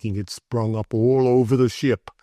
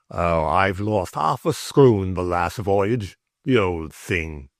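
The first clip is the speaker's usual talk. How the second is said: put-on old sailor voice; 2 semitones lower than usual. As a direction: drag it out like an old salt.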